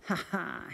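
sly little chuckle, pleased with himself; mischievous chuckle. A narrator's reading. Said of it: "he chuckled to himself".

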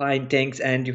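lightly Turkish-accented English. Shown as a demonstration. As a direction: demonstrate everyday English in a mild Turkish accent. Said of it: "R'leri falan basarak konuyu".

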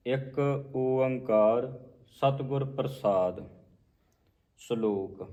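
slow, measured recital; scripture recitation. Acted. Teacher recites the invocation before the hymn. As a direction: intone the invocation slowly and reverently.

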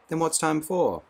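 astonished. A narrator's reading. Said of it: "asked Lenina in some astonishment".

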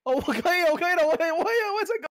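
high, loud, delighted outburst; excited triumph. Real, not acted. Player pulling off the trick too, excited triumph. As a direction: crow over your success, pitch climbing. Succeeds at silly game trick.

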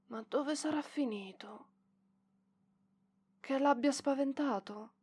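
unvoiced private whisper; whispering to herself. Librarian alone wondering where the boy went, whispered. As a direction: whisper the worry so nobody hears.

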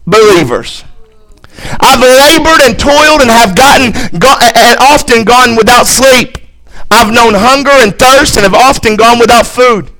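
forceful pulpit reading of a list; emphatic scripture reading. Acted. Preacher reading Paul's hardships to the church, emphatic scripture reading. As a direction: drive through each item, stacking them up.

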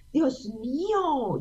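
slow, breathless whispered wonder; awed whisper. Retold or imitated. Young singer recalling being sung to, awed whisper. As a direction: whisper it like a starstruck girl. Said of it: "yo miraba, decía".

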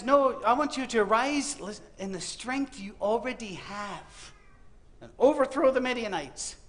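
God's command, slow and deliberate. Acted. God commanding a frightened Gideon, slow and solemn. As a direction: speak it slowly, like a weighty divine command. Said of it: "And God says".

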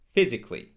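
PHYSICALLY in three syllables, "FIZ-ik-lee"; correct physically. Shown as a demonstration. Teacher modelling physically for learners, A left silent. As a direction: drop the A after C in "physically". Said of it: "it is not pronounced".

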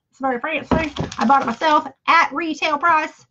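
playful put-on funny voice; lightly put-on comic voice. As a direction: say it in a silly, affected voice. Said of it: "I don't know why I do that funny voice".

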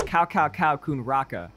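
American accent. Shown as a demonstration. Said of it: "American and wrong".

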